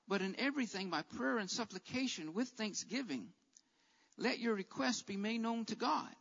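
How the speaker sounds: soft, hushed Bible reading; scripture recitation. Acted. Preacher reciting Philippians to the anxious, softly. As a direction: recite the verse softly and reassuringly.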